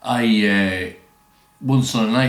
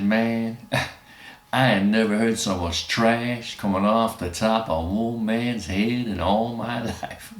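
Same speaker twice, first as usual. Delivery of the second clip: Russian American verdict; slower than usual. Retold or imitated. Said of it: "he turned to me and said".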